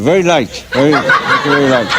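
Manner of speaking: talking through a locked jaw; acted patient with immobile mouth; mouth wired shut. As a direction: answer through clenched teeth. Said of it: "His mouth was like this".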